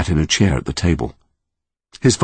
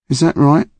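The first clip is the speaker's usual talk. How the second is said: curious, higher and open; genuinely curious; 10 semitones higher, 4 dB louder than usual. A narrator's reading. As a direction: ask as if you truly want to know. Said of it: "seeming genuinely curious".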